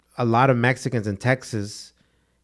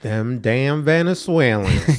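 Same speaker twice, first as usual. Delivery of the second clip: put-on slow, drawn-out Minnesotan accent; slower than usual. Co-host grumbling about newcomers in jest, mock Minnesotan accent. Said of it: "I turned real Minnesotan".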